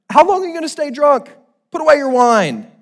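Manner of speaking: loud, high-pitched reprimand; stern rebuke. Acted. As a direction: call out a sharp accusation of drunkenness. Reading Eli's rebuke of Hannah.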